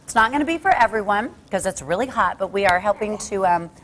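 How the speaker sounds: talking with a mouth full of burger; chewing while talking, mouth full. Real, not acted. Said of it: "Sorry to be talking with my mouth full".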